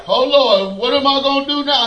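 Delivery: fast, self-pitying whine; whining to God. Retold or imitated. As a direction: complain to the Lord, a bit rushed. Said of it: "God mimics me".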